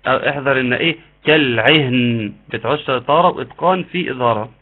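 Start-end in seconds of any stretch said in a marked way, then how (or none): 1.2-2.3 كالعهن with a clear nun, no echo. Shown as a demonstration. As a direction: say كالعهن without bounce on the n. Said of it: "احذروا قلقلة النون".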